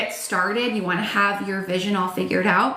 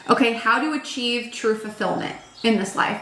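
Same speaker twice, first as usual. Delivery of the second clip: normal talking voice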